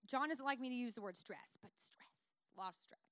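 hushed confiding whisper; secretive whispered aside. Real, not acted. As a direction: lean in and whisper it. Confiding aside about husband.

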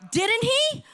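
rising preacher's call; rhetorical challenge. Real, not acted. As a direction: press the congregation for an answer. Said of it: "preacher's rhetorical challenge".

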